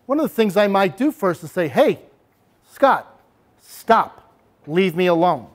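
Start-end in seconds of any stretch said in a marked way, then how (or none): 1.7-5.5 assertive. Shown as a demonstration. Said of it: "Notice what I did here".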